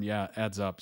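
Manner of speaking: dry, sarcastic agreement. Acted. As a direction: say it with a sarcastic edge. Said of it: "said sarcastically".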